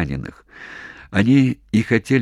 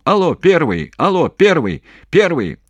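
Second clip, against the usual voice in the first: loud, much higher yelling over shellfire; shouting into phone; 9 semitones higher, 5 dB louder than usual. Acted. Commander yelling into the field telephone to HQ. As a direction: yell down a bad phone line. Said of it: "кричал в трубку Головачёв".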